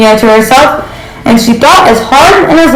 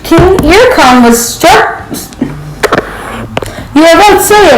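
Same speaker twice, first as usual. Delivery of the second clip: a proud goose talking down; haughty goose; 5 semitones higher than usual. Acted. Petunia lectures rooster grandly.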